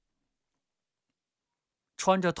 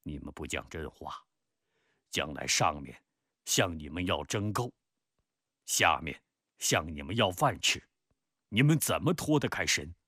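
warning; 6 semitones lower than usual. Acted. Peng warns his cousin against false reporting, warning. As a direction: begin low, then press the warning harder. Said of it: "警告着他".

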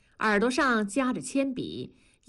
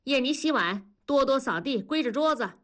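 commanding; 6 semitones higher than usual. Acted. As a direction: bark out the chores. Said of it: "文丽又命令地说".

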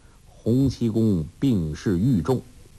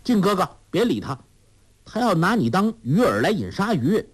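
put-on high, fast girlish warning; Huang Rong calling out; 9 semitones higher than usual. A narrator's reading. 黄蓉急忙劝郭靖别理会，高声快语. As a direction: hurry to warn him off. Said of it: "黄蓉叫道".

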